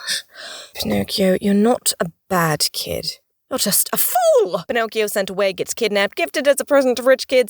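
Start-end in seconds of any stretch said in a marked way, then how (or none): 0.0-0.2 soft, voiceless gasped whisper; whispered dismay. Acted. Fairy reacts to Pinocchio's excuse, dismayed whisper. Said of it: "Azura's like". 0.7-4.6 slow scolding fairy, rising at the end; Azura. Acted. Fairy scolds Pinocchio, slow and drawn-out. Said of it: "Azura's like".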